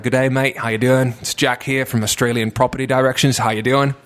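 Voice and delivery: sling it like a chirpy Australian cold-caller; Australian accent. Retold or imitated. Estate agent jokingly cold-calling clients in an Australian accent. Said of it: "tein paljon eri puheluita eri aksenteille".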